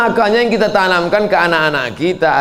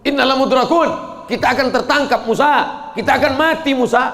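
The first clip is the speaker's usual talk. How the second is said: mild panicked cry; 7 semitones higher than usual. Acted. Israelites crying to Musa in mild acted panic. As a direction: cry out as a trapped people. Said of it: "Apa kata Bani Israel?".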